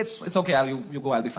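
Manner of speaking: small, very soft mock sob-voice; soft teary whisper of a guest insisting she's fine; imitating teary girl. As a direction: mimic a crying girl brushing him off. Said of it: "कह रही".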